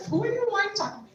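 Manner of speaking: high, sharp retort of disgust; mock a girl who is put off by a stranger. Girl on the street rebuffing a friendly stranger, disgusted. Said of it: "like disgust".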